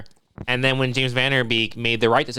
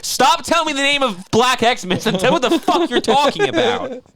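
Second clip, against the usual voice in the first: exasperated; 11 semitones higher, 3 dB louder, slower than usual. Retold or imitated. Voicing an impatient listener.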